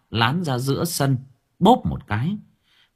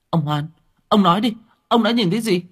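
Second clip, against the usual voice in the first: much higher, fast pleading; urgent plea; 10 semitones higher, 5 dB louder, faster than usual. Acted. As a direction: press the old man to speak. Lán urges the witness. (Lán giục ông Hoan, giọng cao gấp gáp)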